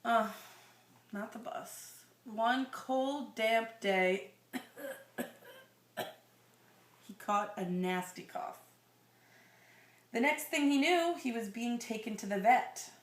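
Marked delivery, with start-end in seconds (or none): 2.2-12.9 put-on slow, gentle read-aloud to a child; storybook reading voice; story narration. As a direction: read it like a bedtime picture book. Reading picture book to child.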